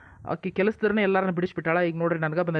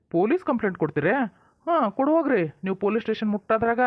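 taunting sneer; 4 semitones higher than usual. Acted. Villain taunting threat of police.

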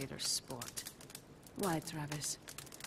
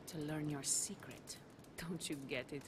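whispered; 2 semitones lower, 8 dB quieter than usual. Acted. Rival drops to whisper.

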